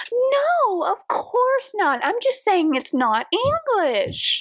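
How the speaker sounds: high, slow, prissy backpedal; mock-prim wife insisting she meant nothing; prim denial. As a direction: draw it out in a high, innocent voice. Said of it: "Magdalena goes out of her way to be like".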